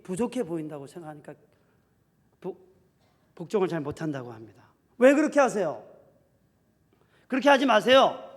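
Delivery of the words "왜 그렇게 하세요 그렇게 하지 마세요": nagging complaint. Retold or imitated. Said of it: "남편에게 계속 따지는 것이죠".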